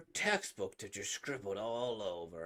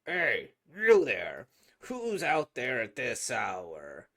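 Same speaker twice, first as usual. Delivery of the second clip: shouting; 3 semitones lower, 10 dB louder, slower than usual. Acted. Guard shouting at kids.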